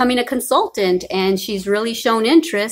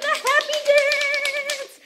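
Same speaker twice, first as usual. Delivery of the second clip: sing-song announcement; much slower than usual. Real, not acted. Doing a celebration dance.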